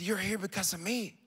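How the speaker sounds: soft repeated revelation. Retold or imitated. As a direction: say it softly and unbroken, letting "me" lift. Repeats woman's revelation, voice lifted.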